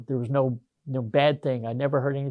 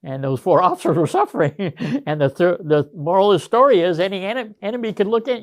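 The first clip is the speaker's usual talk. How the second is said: higher-pitched talk through laughter; laughing; 6 semitones higher, 6 dB louder than usual. Real, not acted. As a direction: tell the punchline while laughing. Laughing as he ends a story.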